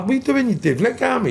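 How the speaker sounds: high mock shout at the bouncer; retold yell.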